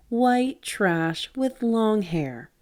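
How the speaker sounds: very slow contemptuous sneer; bully spitting out the slur; sneering insult. A narrator's reading. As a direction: savor every word of the insult. Bob insulting them.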